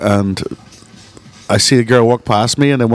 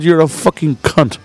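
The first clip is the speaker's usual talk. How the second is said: slow, higher-pitched insistence; emphatic repeated insult; 6 semitones higher, slower than usual. Retold or imitated. Bar owner answering offended woman, slow emphatic insult. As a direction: spell the insult out slowly, pitched up.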